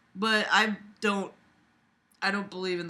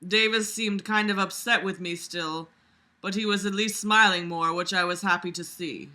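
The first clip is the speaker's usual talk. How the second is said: projected read-aloud voice; story narration; 4 dB louder than usual. A narrator's reading. Vlogger reading a story aloud to listeners, projected narration. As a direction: read the fic out clearly.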